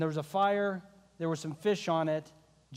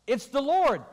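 excited recognition; 7 semitones higher, 6 dB louder than usual. Acted. John's excited announcement.

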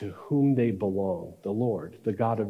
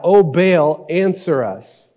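loud, raised cry to a god; 5 semitones higher, 8 dB louder, slower than usual. Acted. Baal's prophets call on their god, crying out loudly. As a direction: call out at full voice, pleading for an answer. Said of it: "they cry out".

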